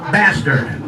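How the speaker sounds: mock operator. Operator call repeated slowly.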